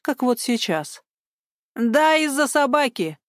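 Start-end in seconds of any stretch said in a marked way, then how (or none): 1.7-3.2 put-on old woman raising her voice at the sergeant; raised voice. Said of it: "повысила голос Мария Гавриловна".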